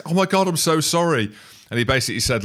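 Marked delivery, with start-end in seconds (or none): 0.0-1.3 high squeaky apology. Retold or imitated.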